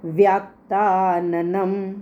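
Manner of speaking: व्यात्ताननं with a doubled, pressed त; stress on त. Shown as a demonstration. Teacher showing students to stress त in व्यात्ताननं. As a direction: lean on the त in व्यात्ताननं. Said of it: "त पर stress दे के बोलना है".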